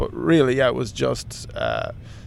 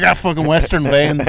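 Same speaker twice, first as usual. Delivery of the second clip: mild mock-angry nurse; imitated annoyance, only slightly raised; 4 dB louder than usual. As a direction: grumble like an irritated nurse, half-laughing. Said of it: "gets angry at my vein".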